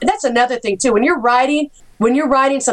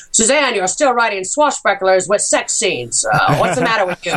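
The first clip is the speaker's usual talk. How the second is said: producer buddy voice; 3 semitones lower than usual. Retold or imitated. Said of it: "he goes".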